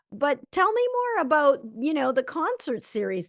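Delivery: keen friend asking about the concert series; eager redirect. Acted. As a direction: swing the chat back to them with interest. Redirecting to the other person.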